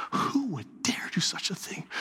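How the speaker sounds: a breathy hush of disbelief; the king whispering in appalled disbelief; hushed outrage. Retold or imitated. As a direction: whisper it, shocked to the core. Furious king standing up.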